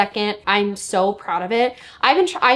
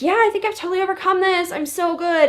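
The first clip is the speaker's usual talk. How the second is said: mock overconfident; 10 semitones higher than usual. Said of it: "I literally was like".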